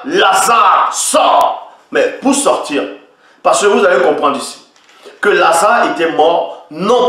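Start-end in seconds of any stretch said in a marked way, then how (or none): 0.0-1.7 cried out. Acted. Preacher crying out Lazarus's name. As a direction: call him out of the tomb.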